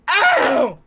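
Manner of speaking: sudden high loud ow; high yelp of pain. Acted. Struck fop yelping in pain at the paladin. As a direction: yelp like a hurt spoiled kid. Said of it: "and he goes".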